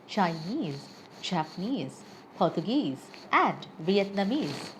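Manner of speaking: absentee, refugee, engineer, Chinese with the last syllable stressed; stress on suffix. Shown as a demonstration. Teacher giving learners examples of the suffix rule, final-syllable stress on "absentee" to "Vietnamese". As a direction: list each word, leaning on its ending: absenTEE, engiNEER, VietnamESE. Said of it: "stress is almost always placed on the suffix".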